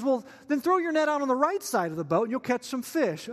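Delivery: lightly projected, upbeat call; calling from shore. Acted. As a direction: call out helpful advice to the boat. Stranger calls from the shore.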